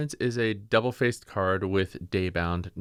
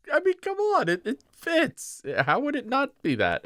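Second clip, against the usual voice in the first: laughing protest. Real, not acted. Laughing defence of his pronunciation.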